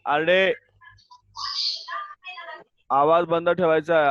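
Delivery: loud, stern call for silence; stern scolding. Real, not acted. Teacher raising her voice at chattering pupils, stern shout.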